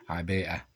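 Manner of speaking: عباءة said slowly, stretching the long aa before the hamza; drawn-out عباءة with a clear glottal stop; careful pronunciation. Shown as a demonstration. Teacher models the correct word for students, slow and clear. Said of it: "هكذا".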